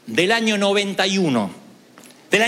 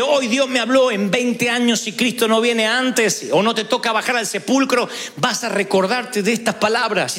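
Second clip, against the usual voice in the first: fervent declaration; 4 semitones higher than usual. Acted. Prays aloud, voicing the listener.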